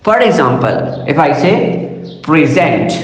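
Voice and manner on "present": preSENT, weight on the second syllable; stress on second syllable. Shown as a demonstration. Lecturer demonstrating the verb to learners, stress on preSENT's second syllable. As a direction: say present as the verb, pre-SENT. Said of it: "if I'm using this word as a verb".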